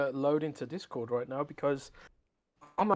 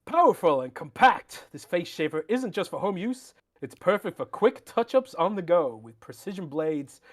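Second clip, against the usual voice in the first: put-on American accent. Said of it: "let's use your American accent here".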